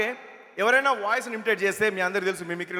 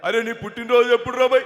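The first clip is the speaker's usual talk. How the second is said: lightly voiced politician, louder; వి Hanumantharao impression; 2 semitones higher, 5 dB louder than usual. Politician asking his guest's birthday, mimicked. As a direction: ask loudly in the mimicked voice. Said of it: "Hanumantharao గారి bit ఒకటి చెప్పేసి".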